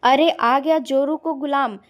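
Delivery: loud, angry jeer; flaring up. A narrator's reading. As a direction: burst out scornfully at him. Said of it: "Sanjana जी भड़क गई".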